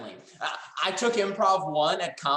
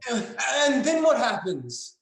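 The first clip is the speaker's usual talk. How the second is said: dramatic demand; 4 semitones higher, slower than usual. Acted. Acted urgency.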